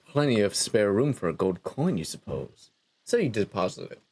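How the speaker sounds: low, measured storyteller; game narration. Acted. Narrator telling a player how they woke on a beach, measured narration. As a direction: narrate it evenly, a little low.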